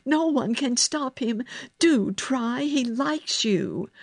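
high-pitched, anxious appeal; urgent pleading. A narrator's reading. Nurse begs girl to calm the boy, urgent pleading. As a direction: beg for help at once.

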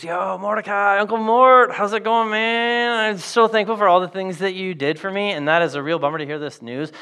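lightly voiced breezy modern girl; laid-back brush-off, Yo Mordecai; casual Esther. Esther blowing off her uncle, casual and dodging. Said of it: "Esther goes".

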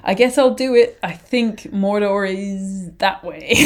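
lightly voiced unsure hobbit, tipping into a laugh; hesitant volunteer imitation. Frodo offering himself at the breaking of the Fellowship, hesitant. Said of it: "being like".

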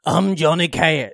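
slow, drawn-out country singer attempt; impression of a country singer. Host attempting a country singer on request, slow impression. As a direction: drawl it slowly, lightly put on. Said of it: "Can you do a country singer?".

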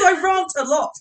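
"rant" as long-vowelled "rahnt"; amused, saying "rant" to rhyme with "aren't"; habitual mispronunciation. Shown as a demonstration. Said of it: "the other one I do is".

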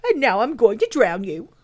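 loud, indignant rhino voice; put-on voice of an irate old beast; cross rhinoceros. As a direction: turn from self-pity to threat.

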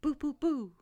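playful booing; mock boo. Shown as a demonstration. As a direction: boo them jokingly. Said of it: "that's not the right noise".

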